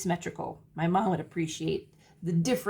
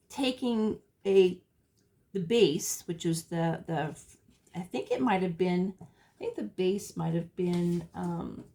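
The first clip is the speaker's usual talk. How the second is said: fumbling for words. Real, not acted. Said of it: "apologize for my, my bumbling".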